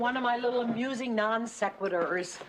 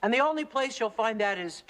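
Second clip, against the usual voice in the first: brisk motivational read-aloud, easing at the end. Acted. Kate reads her business book to a busy partner, reading aloud. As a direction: read it out like self-help gospel.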